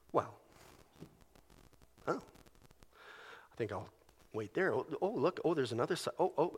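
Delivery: mock furtive murmur at the screen; hushed tempted murmur. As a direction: murmur like someone drawn to the screen. Voicing man tempted online.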